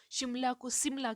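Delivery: first शिमला with "sh", second as "Simla" with "s"; sh versus s. Shown as a demonstration. Teacher showing elders' mix-up, शिमला turned into सिमला. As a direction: say शिमला correctly, then as सिमला with an s. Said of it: "श और स का झोल हो रहा है".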